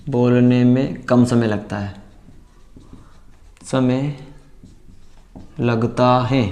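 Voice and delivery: slow, word by word for writing down; slow dictation. Shown as a demonstration. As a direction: spell it out slowly so students can write. (धीरे धीरे लिखवाते हुए)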